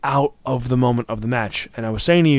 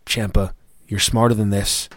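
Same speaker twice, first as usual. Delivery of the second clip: louder, urgent warning to a wrestler; pleading yell at the screen; 6 dB louder than usual. Retold or imitated. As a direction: shout advice at the TV. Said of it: "And I'm like".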